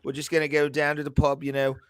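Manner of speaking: a light English accent, sing-song; lightly voiced English pub-goer accent; English accent demo. Shown as a demonstration. Showing the group how English accent sounds, lightly done. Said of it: "when you talk in an English accent".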